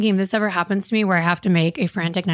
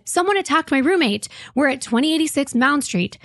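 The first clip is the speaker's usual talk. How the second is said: frantic caller; 6 semitones higher than usual. Retold or imitated. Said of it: "a frantic call".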